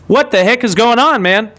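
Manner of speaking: half-laughing disbelief at the screen; stunned disbelief. Retold or imitated. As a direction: ask it like you can't believe your eyes. Retelling shock at the numbers.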